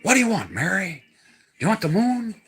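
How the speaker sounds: lightly voiced old-movie suitor, swooping pitch; movie sweetheart. Man quoting the movie to Mary, lightly acted suitor. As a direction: lightly act out a classic film romance. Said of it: "It's a Wonderful Life".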